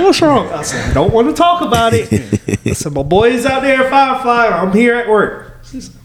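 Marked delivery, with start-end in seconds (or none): 0.0-0.5 high-pitched, laughing mock concern; imitated concerned woman. Woman asking him at work, mock concern. 0.9-5.6 high-pitched laughing complaint; mock sulking. Worker missing Firefly festival, mock sulk.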